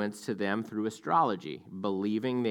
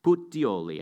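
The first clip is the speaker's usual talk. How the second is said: put-on Italian accent. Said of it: "I have to say it in an Italian accent".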